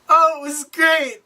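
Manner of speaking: high, drawn-out reply; acting out a strained pleasantry; imitated forced brightness. Nervous woman answering in retold dinner.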